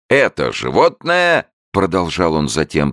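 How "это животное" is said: high, loud and slow solemn announcement; solemn raised voice. A narrator's reading. Showman announcing to the crowd, solemn raised high voice. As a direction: raise the voice grandly. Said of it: "торжественно повышая голос".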